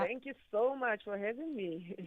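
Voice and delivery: heartfelt, eager thanks with a lilt; keen, lively gratitude; passionate. Real, not acted. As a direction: thank the host with real enthusiasm. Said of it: "I love the passion in your voice".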